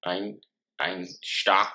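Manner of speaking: "Einstock" retried with a German "sht", "ine-shtock"; mock German accent. Brother retrying his beer's name in a mild mock German accent. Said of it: "how can you do a German voice".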